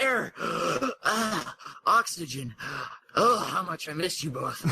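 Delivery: a hint of breathless relief; relieved gasping. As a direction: gasp out the relief, lightly voiced. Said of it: "said in relief".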